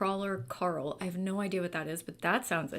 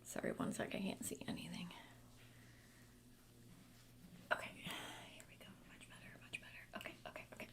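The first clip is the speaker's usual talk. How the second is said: soft unvoiced whisper to self; whispered aside; 2 semitones lower, 16 dB quieter, faster than usual. Real, not acted. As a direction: whisper it while fixing the camera. Fiddling off mic, unvoiced.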